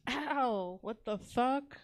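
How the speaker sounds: loud hurt yelp; pained yelp. Retold or imitated. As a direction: yelp at the sudden bite. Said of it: "I was like".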